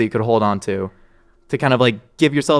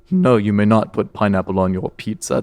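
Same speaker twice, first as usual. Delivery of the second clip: Morpheus; 3 semitones lower than usual. Retold or imitated. Imitating Morpheus forbidding pineapple on pizza, solemn. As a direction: intone it like a grave oracle. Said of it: "That was Morpheus".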